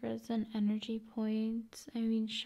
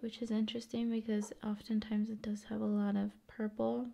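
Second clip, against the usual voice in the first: ASMR whisper; faster than usual. Acted. ASMR host whispering about the fluorite stone. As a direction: whisper the aside.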